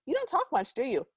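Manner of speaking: high-pitched mocking quote; imitated clueless guy. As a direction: pipe it up high, mocking him. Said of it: "and then goes".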